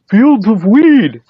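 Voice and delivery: drawn out like seeing paradise; awestruck. Retold or imitated. Tourist gaping at Hokkaido hemp fields, slow awestruck wonder.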